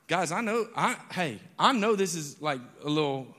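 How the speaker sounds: buzzing with caffeine energy; too much caffeine. Real, not acted. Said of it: "I had three cups of coffee today".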